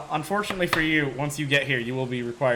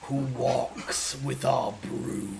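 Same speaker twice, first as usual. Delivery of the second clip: slow, distant dragon voice; an ancient voice inside your head; 3 semitones lower, 8 dB quieter, much slower than usual. Acted. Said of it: "you hear in your head".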